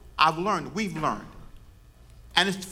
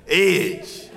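laughing answer; 4 dB louder than usual. Real, not acted. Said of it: "Say it with pride".

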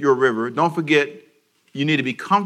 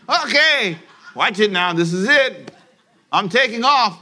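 mock pilot boast; 6 semitones higher, 4 dB louder, slower than usual. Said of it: "and you says".

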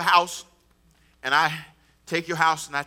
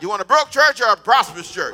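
louder, shouted repeat of the question; 7 dB louder than usual. Shown as a demonstration. Pastor asking the church again, shouting. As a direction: throw the question out loud to the room. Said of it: "Say it loud".

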